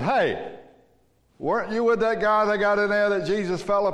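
lightly voiced woman pointing him out; woman's voice. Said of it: "this woman said".

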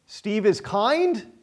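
slow question, KIND drawn out with a lilt. Shown as a demonstration. Preacher testing his name in the verse, questioning. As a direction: stretch "kind" into a doubtful question. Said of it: "Question mark".

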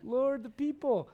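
slow, drawn-out weary groan to God; exasperated complaint. Retold or imitated. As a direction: drag it out, fed up. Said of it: "I can relate to Moses".

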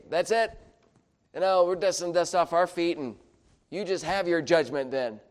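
hammed-up dismissal, high and loud; mock indignant huff. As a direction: imitate someone washing their hands of it. Acts out what apostles didn't say.

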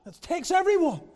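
loud, high, driving preacher shout; loud preaching. Acted. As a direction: raise the roof with it. Preaching about yelling orders.

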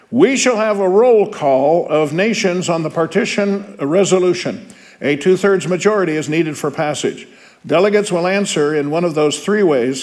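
a hint of a formal chairman calling order; lightly voiced UN chairman. Teacher reading the chairman to his class, lightly formal. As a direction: read it like the assembly chair opening the vote.

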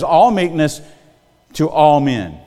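"All" pressed firmly both times; stress on all. Shown as a demonstration. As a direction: lean on "all" as the key word. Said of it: "I can read clearly the scripture says".

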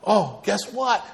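hint of a British friend sharing news; lightly imitated British accent, slow; attempted British accent. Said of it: "I can't do his accent".

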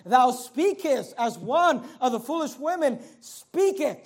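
slow reading, weight on "speakest" and "speaketh"; emphasis on speech words. Shown as a demonstration. Preacher quoting Job to show his point, deliberate stress on "speakest" and "speaketh". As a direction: stretch "speakest" and "speaketh" so both stand out. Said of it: "The emphasis is on the words".

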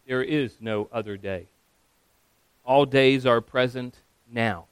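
blunt, measured reply; matter-of-fact, unhurried bluntness. Acted. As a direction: state it plainly and firmly, no flourish. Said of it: "very bluntly turns to him".

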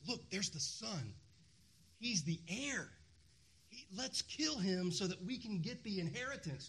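plotting with wicked relish; evil excitement. Acted. Tenants plotting as the son approaches, evilly excited. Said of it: "this evil excitement".

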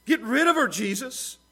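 high, loud, exasperated complaining; annoyed disciples. Retold or imitated. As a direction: whine it out like fed-up followers. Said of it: "That's who the disciples were".

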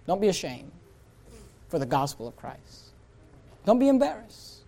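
usual speaking voice

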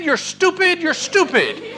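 high-pitched mock scold of a dog; teasing scold at the dog. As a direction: tell off a silly dog.

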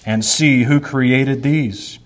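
measured, solemn reading of scripture. Acted. Pastor reading Isaiah to the congregation, solemn and measured.

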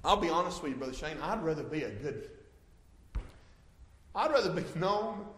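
normal talking voice

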